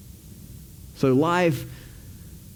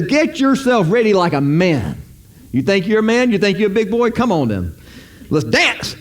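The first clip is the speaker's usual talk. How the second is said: higher, teasing fight-talk as God; taunting God; 5 semitones higher than usual. Retold or imitated. Preacher voicing God taunting Job, higher and teasing. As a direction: goad him like a boxer before a bout. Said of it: "he says".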